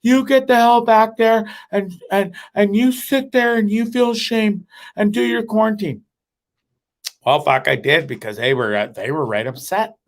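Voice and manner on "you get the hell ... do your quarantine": mock yelling friends. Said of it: "But they yelled at me".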